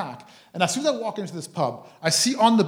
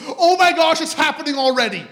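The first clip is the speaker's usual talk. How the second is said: put-on much higher and louder, astonished girl; amazed gasp; 10 semitones higher, 8 dB louder than usual. Daughter amazed the prophecy came true, high excited voice. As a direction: squeal it like it's a miracle.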